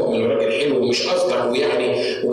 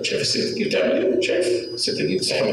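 high, hushed gossiping whisper; mock excited whisper of a servant pointing her out. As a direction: lean in and whisper like a nosy servant.

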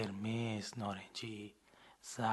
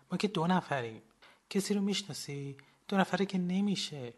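higher, louder worried protest; insistent doubt; 7 semitones higher, 4 dB louder than usual. Acted. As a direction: push back urgently. Narrator doubts two are enough.

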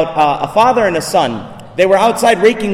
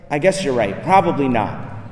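reluctant concession; 6 semitones lower, 4 dB quieter than usual. Retold or imitated. Retold son conceding to father.

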